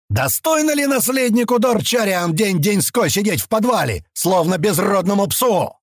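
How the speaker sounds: mock the heir with scorn; yelling. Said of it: "заорал он".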